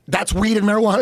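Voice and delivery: lightly voiced accusing cop; mild imitation of a policeman; retold cop. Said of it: "But he goes".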